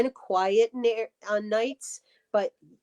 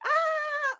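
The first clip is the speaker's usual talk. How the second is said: laughing squeal. Real, not acted. Laughing at an embarrassing question.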